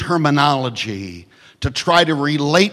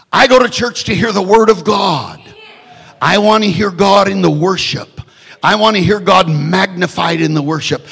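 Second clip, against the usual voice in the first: loud, higher preaching cry; preaching shout; 4 semitones higher, 5 dB louder than usual. Real, not acted. Preacher shouting to the church why he comes. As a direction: proclaim it at full force.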